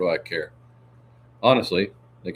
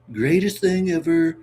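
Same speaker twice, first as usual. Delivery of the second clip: slow, much higher mock-grand proclamation; hammed-up boast; 11 semitones higher, 6 dB louder, slower than usual. Reader's boast to viewers, hammed-up and slow. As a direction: ham it up like a braggart.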